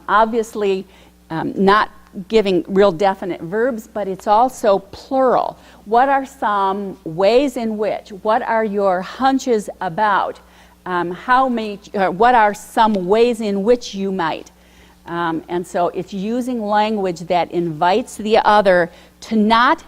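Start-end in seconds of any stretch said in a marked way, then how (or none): 5.8-14.5 tentative questions. Shown as a demonstration. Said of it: "Using tentative language".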